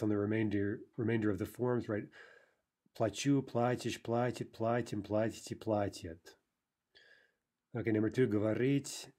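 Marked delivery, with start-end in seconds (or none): 3.0-6.2 end-stressed Плачу, then платишь and the rest stressed on ПЛА; shifting stress. Shown as a demonstration. Teacher reciting the conjugation, Плачу stressed last, платишь onward stressed first. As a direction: recite with the beat moving back after Плачу. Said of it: "that's shifting stress".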